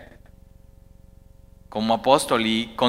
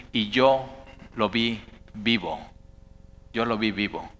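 hushed testimony; 4 semitones lower, 6 dB quieter than usual. Acted. Apostles' testimony voiced.

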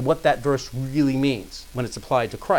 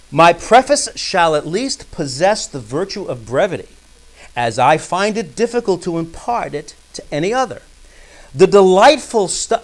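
emphatic, raised reading aloud; lightly declaimed quotation; formal quote reading; 3 semitones higher, 7 dB louder than usual. Acted. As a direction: read the preface out firmly.

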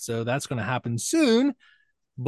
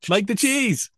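silly voice; 9 semitones higher, 3 dB louder than usual. Pretend. Punchline joke in funny voice.

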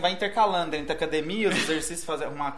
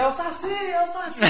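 high mock crowd shout; lightly imitating people shouting at a party; 10 semitones higher than usual. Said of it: "vou fazer uma imitação".

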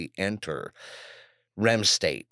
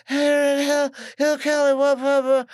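much higher, slow, strained breathy voice; imitating the car dealer; 7 dB louder, slower than usual. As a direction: squeeze the words out like she can barely breathe. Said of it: "she was always like".

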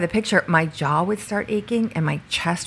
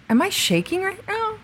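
startled question; 13 semitones higher, 4 dB quieter than usual. Retold or imitated. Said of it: "And I go".

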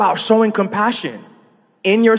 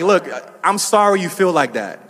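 mock non-apology; 2 semitones lower than usual. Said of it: "that's not really an apology".

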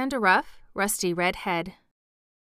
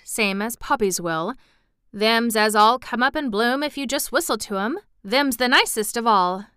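lightly voiced Yorkshire country lad, lively emphasis; friendly moor boy; 2 semitones higher, 4 dB louder than usual. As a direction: chat keenly like a moor boy.

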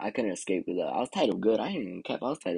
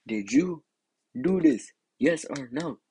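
retold interrogation; 3 semitones higher, 4 dB louder, slower than usual. Parent questioning the kid.

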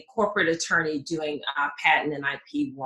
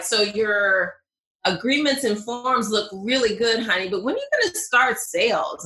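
lightly voiced husband, a bit higher; quoting her husband playfully; imitating husband; 4 semitones higher, 3 dB louder than usual. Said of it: "my husband would be like".

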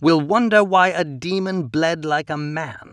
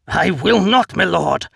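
loud refusal; 5 semitones higher, 6 dB louder than usual. A narrator's reading. Defiant refusal to Count.

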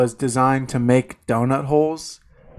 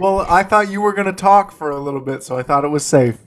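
talking while chewing pudding; words round a mouthful; 5 semitones higher, faster than usual. Real, not acted. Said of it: "another scoop of tapioca".

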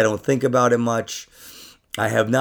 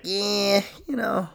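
high, airy put-on musing; lightly voiced dreamy friend; mock philosophical musing; 7 semitones higher, 8 dB quieter, slower than usual. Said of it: "she was like".

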